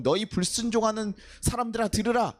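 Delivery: acted anger. Moses rebuking the disobedient people, mildly acted anger. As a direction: rebuke a crowd with a touch of anger. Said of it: "굉장히 분노해서 화를 내면서 승질을".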